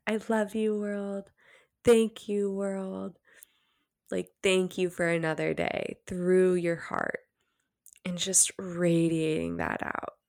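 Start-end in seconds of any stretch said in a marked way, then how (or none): 0.1-3.2 softer, breathy-quiet thanks to the world; whisper-soft gratitude, held from the heart; soft heartfelt affirmation. Shown as a demonstration. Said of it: "And just keep holding it there". 8.0-10.2 unvoiced whisper, gently guiding; whispered guidance. Shown as a demonstration. Guided practice, whispered.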